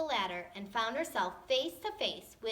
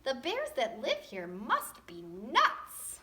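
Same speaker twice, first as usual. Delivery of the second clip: slow, weary mock grumble; exhausted girl; 2 semitones higher, slower than usual. Goldilocks complaining about the giant bears' house. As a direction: drag it out like a tired kid. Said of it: "groaned the exhausted girl".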